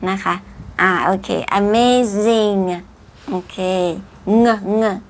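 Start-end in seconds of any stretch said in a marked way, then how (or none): 1.6-2.6 "amazing" with a held, audible NG ending; don't drop the final G of "amazing"; slow "amazing", lingering on NG; sounded final G. Shown as a demonstration. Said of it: "ตัว G ข้างหลังอย่าลืมออกเสียง". 4.4-5.0 "เงอะ เงอะ" as short nasal NG syllables; teacher isolating NG in "เงอะ เงอะ"; isolated G sound. Shown as a demonstration. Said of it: "ตัว G ข้างหลัง".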